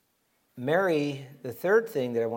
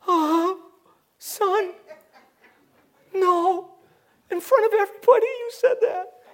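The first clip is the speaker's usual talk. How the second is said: loud, very high falsetto wail; hammed-up emotional; 7 dB louder than usual. Preacher mimicking a distraught Mary to her son, mock emotional. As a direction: wail like an overwrought mother, played for laughs. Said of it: "We don't see her getting emotional".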